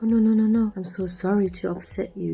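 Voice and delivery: a lightly voiced anxious people-pleaser, rushing to apologise; mock scared apology. Imagined scared renter appeasing the angry landlady, a touch of mock panic. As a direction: act out the scared renter backing down at once. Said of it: "A scared person right now would be like".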